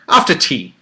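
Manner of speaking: exaggerated amateur British accent; put-on British accent. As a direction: toss it off in stagey British. Joking mock-British add-on.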